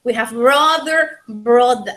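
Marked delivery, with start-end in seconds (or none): 0.3-1.2 BROTHER with the final R sounded, American-style accent; BROTHER, rhotic accent example; accent contrast. Shown as a demonstration. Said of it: "That is accent". 1.3-1.9 BROTHER with the final R dropped, British-style accent; accent contrast. Shown as a demonstration. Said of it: "That is accent".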